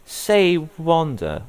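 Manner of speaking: high, slowed surprise; realization. Retold or imitated. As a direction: drag out the discovery up high. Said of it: "I was like".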